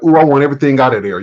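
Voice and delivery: quick, eager mock craving; half-joking rush of want; greedy excitement. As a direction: act like a kid in a candy store. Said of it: "I have convulsions and go crazy".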